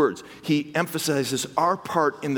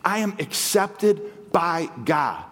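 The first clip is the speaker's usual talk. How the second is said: "I am accepted by God" drawn out slowly, each word weighed; slow, deliberate "I am accepted by God"; slow, weighty repeat; slower than usual. Shown as a demonstration. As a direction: let it sink in, slowly. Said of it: "Think about that".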